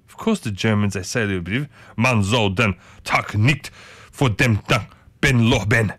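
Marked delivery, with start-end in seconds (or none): 2.0-5.9 mock German. Shown as a demonstration. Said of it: "Well, that's terrible".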